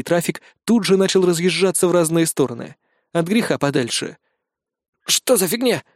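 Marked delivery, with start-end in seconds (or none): 5.1-5.8 high, frightened squeak; a scared high-pitched question. A narrator's reading. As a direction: yelp it out in fright. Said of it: "испуганно пискнул Макс".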